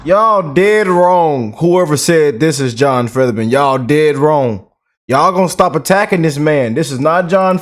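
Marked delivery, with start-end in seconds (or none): 0.1-1.5 slow emphatic dismissal. Real, not acted. Rebutting critics of Fetterman. 3.5-4.6 slow emphatic dismissal. Real, not acted. Rebutting critics of Fetterman.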